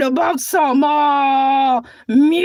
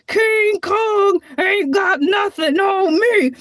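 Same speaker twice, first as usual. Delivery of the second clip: movie quote; slower than usual. Retold or imitated. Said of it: "like that guy said in that movie".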